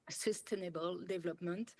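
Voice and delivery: jokingly showing off her English accent. Shown as a demonstration. French trainer showing off her English to the webinar, proud English accent. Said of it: "partager mon accent formidable".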